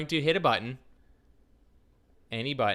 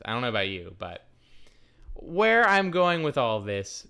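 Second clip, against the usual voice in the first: whisper; 3 semitones lower than usual. Acted. Conspiratorial aside to viewers.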